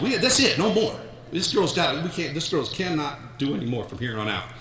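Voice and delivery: high-pitched, insistent coach impression; John Onnie impression. Dad giving his daughter orders at a timeout, coach impression. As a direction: start high and emphatic, then settle as you lay down the order. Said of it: "I did my best John Onnie imper-, impersonation".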